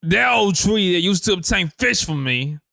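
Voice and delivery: put-on theatrical Cockney accent; Cockney raccoon. Reading Rocket's comic panel for the co-host, Cockney. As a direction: read it as an old-fashioned British chap. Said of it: "that's what he was intended to sound like".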